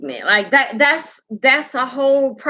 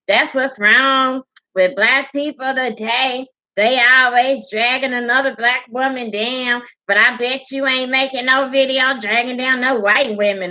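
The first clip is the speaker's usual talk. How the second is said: sing-song mimicked scolding; commenter imitation; 3 semitones higher than usual. Vlogger voicing the commenter's complaint, mocking imitation. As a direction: run it on like a sassy complaint. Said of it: "what she say?".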